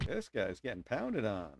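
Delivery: ordinary talk, nothing marked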